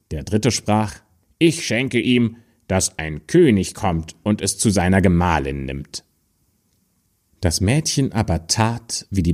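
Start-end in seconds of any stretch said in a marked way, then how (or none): 1.4-6.0 a light, friendly little man's promise; gentle dwarf granting a royal marriage; kindly dwarf. Acted. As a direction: give the blessing generously. Third dwarf grants good gift.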